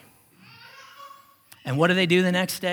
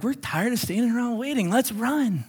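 imitating impatient people; 6 semitones higher than usual. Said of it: "And they're like".

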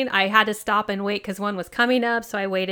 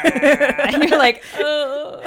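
high laughing reply; 7 semitones higher, 5 dB louder, much slower than usual. Real, not acted. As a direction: let the laugh carry it up. Laughing at bird noise.

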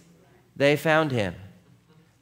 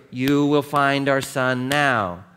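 stern order; 4 dB louder, slower than usual. Retold or imitated. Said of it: "That's sort of".

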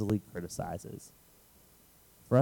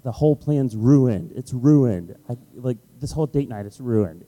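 frustrated; 3 semitones higher, 6 dB louder than usual. Retold or imitated.

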